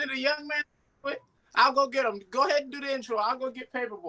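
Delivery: a son playing his own granny; grandma voice. Grandson fetched for the show, in a light granny voice. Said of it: "this is Paperboy's grandmother".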